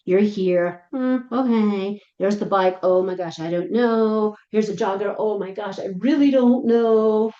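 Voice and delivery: anxious dog. Pretend. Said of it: "you're just like".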